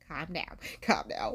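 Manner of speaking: soft, low imitation of mom; mock-soothing parent, voice dropped; calming mom. Mom's reply, acted out.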